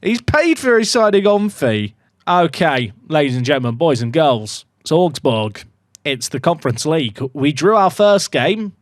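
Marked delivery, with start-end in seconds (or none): 2.3-8.8 a light, accidental Australian twang; attempted Australian twang. Real, not acted. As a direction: slip into a loose Australian accent. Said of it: "talking with an Australian twang".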